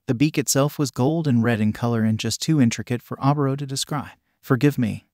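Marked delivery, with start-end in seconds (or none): 4.4-5.1 muffled behind a mask. Acted. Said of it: "voice was muffled behind the mask".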